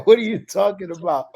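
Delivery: high, loud mock Welsh accent; imitated Welsh accent. Welsh girl answers the baffled newcomer, imitated Welsh accent. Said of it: "With her accent".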